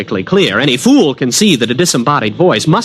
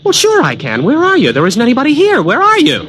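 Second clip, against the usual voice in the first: calling out; 12 semitones higher than usual. Acted. Calling out to unseen voice.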